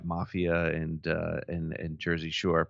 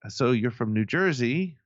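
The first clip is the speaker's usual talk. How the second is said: put-on slow, higher, half-hearted German accent; bad German accent; 4 semitones higher, slower than usual. German kid asking visitor about New Jersey, rough German accent. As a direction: imitate a German teenager, accent loosely done. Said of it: "not gonna do a good German accent".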